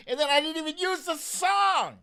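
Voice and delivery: loud, high self-mocking exclamation; exasperated laugh. Real, not acted. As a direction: throw up your hands at your own forgetfulness. Laughing at his own irony.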